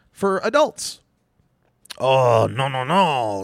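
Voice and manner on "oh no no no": drawn-out theatrical protest; mock dismay. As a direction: wail it in mock horror. Mocking the French political outcry.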